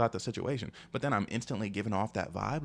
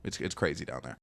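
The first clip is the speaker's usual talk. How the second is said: low, deadpan imitation of her; straight to the point; 5 semitones lower, 3 dB quieter than usual. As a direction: retell it matter-of-factly, dropping lower as it goes. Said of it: "she was just straight to the point".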